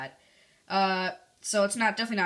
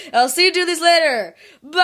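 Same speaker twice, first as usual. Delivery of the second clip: high, loud goodbye through a laugh; laughing sign-off; 9 semitones higher, 14 dB louder than usual. Acted. Vlogger redoing his goodbye, laughing loudly. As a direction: shout the farewell while cracking up.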